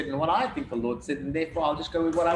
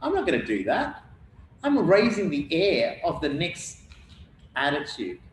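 arrogant gloating; 3 semitones higher than usual. Retold or imitated. Preacher mimics Hagar taunting Sarai, arrogant gloating. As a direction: gloat like a smug rival flaunting her fertility. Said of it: "Hagar started getting arrogant".

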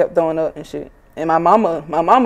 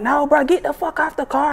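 imitating boyfriend; 9 semitones higher than usual. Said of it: "He like".

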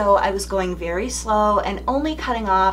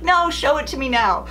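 insistent daughter; 6 semitones higher than usual. Retold or imitated. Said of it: "She's like".

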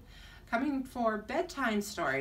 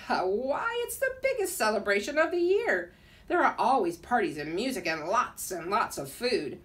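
put-on jolly Russian accent; 3 dB louder than usual. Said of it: "spoke in a Russian accent".

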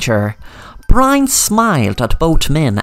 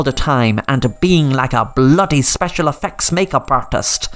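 higher, sing-song villain taunting his captives; gloating villain; 4 semitones higher than usual. Acted. Brian gloats to Sam, mildly menacing. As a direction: savour every word of the trap.

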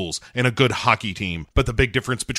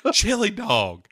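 imitating that voice; 8 semitones higher, slower than usual. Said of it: "saying chili dog in that voice".

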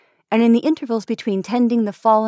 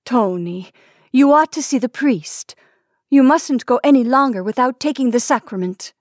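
higher, louder anxious urging; anxious wife; 4 semitones higher, 4 dB louder than usual. Acted. Wife urging dying husband toward sacrament, anxious plea. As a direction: press him to see the priest.

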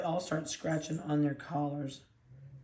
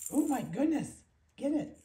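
much higher cooing voice; playful puppy talk; 9 semitones higher than usual. Real, not acted. Excited play with puppy.

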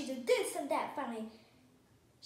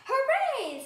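loud, high hurrah; big high-pitched burst of joy; triumphant cheer; 12 semitones higher, 12 dB louder than usual. A narrator's reading. Cheering once the tent is pitched.

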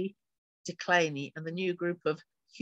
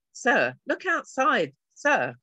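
louder, higher, slow urgent call; alarmed guard, loud and slow; urgent plea; 7 semitones higher, 6 dB louder, slower than usual. Acted. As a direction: urge him to look, still breathless. Panicked guard urging commander.

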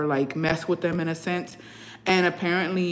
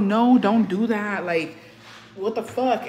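retold exasperation, slow and higher; mad protest; 3 semitones higher, slower than usual. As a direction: drag out the mock telling-off. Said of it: "I was so fucking mad".

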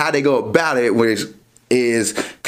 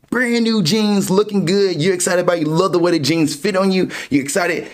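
excited; 5 semitones higher than usual. Pretend. Excited about new jeans.

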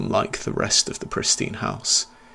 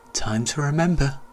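giggled; 6 semitones higher than usual. Acted. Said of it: "the boy giggled".

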